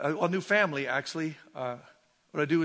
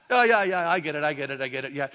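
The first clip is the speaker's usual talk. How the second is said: glib, low run of agreement; mock easy agreement; 4 semitones lower, faster than usual. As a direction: imitate someone nodding along too readily. Voices easy agreement with world.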